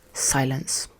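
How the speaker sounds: whispered silence. Real, not acted. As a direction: hush it like a dramatic beat. Dramatic pause in meeting.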